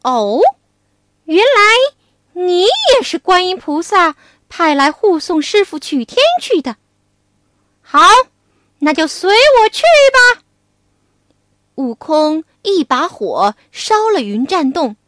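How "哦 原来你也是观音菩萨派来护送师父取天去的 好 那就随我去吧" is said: Wukong. Acted. Wukong accepts him.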